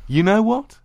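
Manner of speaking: angry shouted challenge. Acted. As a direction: snap it out loud. Angry dominant outburst.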